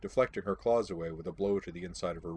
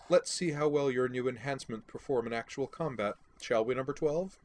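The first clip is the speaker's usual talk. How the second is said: smirking; 5 semitones higher than usual. Acted. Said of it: "with a faint smirk".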